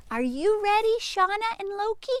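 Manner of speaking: cheerful call to the sheep. Real, not acted. Calling to the sheep.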